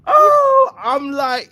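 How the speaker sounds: high crying laughter; laughing hard. Real, not acted. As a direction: talk through tears of laughter.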